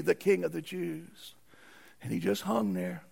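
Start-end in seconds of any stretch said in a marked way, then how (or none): 0.0-1.3 slow mocking title; sarcastic. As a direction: draw the title out with scorn.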